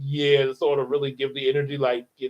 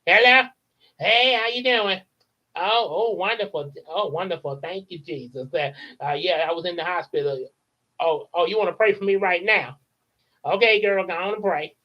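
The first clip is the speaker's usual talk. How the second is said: lightly voiced chatty Madea; a hint of Madea gossiping on the phone. The speaker plays Madea chatting with a friend, lightly voiced. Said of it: "voices the new Madea".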